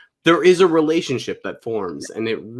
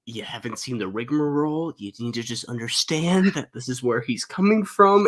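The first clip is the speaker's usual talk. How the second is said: retold aside; 5 dB quieter than usual. Quieter acted explanation to mom.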